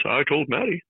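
a modest impression of the coworker; Alan Wooten impression. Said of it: "This is about as good as I get".

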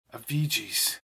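almost inaudible. A narrator's reading. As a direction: breathe the name almost silently. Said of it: "spoke in an almost inaudible voice".

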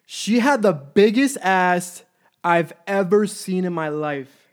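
slow, loud, stretched-out amazement; awed and emphatic. Real, not acted. Telling the listener about her figure, slow and awed. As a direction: drag each word out in disbelief.

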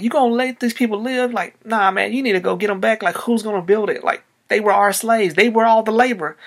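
hammed-up courtier urging the king; indignant advisers. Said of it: "some of Pharaoh's people come to him and like".

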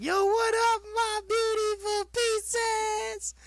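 very high, slow, hyped squeaky greeting; cartoonish high food-critic catchphrase; YouTuber impression. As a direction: go way up in a goofy hype-man voice. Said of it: "He's like".

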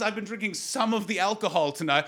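mock overly proper phrasing. Shown as a demonstration. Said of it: "So no one says".

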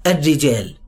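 الرجال with a stressed doubled ر and a closing ل; tajweed recitation. Shown as a demonstration. Teacher reciting الرجال by tajweed rules. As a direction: press the ر in الرجال and close the ل. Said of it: "حط بقى قواعد التجويد".

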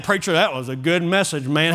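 a hint of a redneck churchgoer, low register; low-voiced redneck impression, understated; lightly voiced redneck. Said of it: "I'd have rednecks coming up to me".

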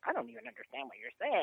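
high-pitched exasperated confusion; high, baffled protest; mock bafflement. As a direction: wail it in comic incomprehension. Acted bafflement at texting.

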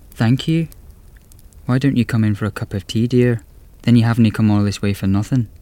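kindly old Scottish granny, lightly voiced; Scottish old lady.

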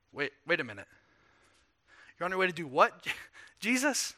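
half-laughing, can't believe it; a stunned laugh on Jesus?; a disciple hearing the king will suffer, baffled; incredulous disbelief. Acted.

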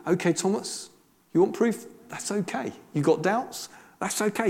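soft, reassuring invitation to a doubter; accepting. Retold or imitated. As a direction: quietly let him know doubts are allowed. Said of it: "There's acceptance".

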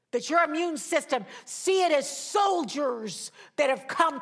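loud, rising pulpit declarations; charged sermon proclamation; preaching. Real, not acted. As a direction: command it over the congregation with fervor.

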